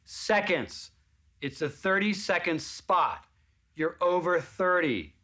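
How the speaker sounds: woman at the back dismissing the actor, hammed-up; mock snooty woman. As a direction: drawl out the insult from the back. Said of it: "She went".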